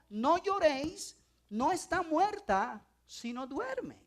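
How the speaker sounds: slow, gentle words of Jesus. Acted. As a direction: say it slowly, calmly, to comfort them. Jesus quoted, first time.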